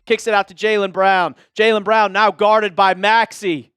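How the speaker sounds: steady broadcaster call ending in a shouted "good"; live play-by-play. Acted. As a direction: narrate each pass like TV commentary. Calls the game live.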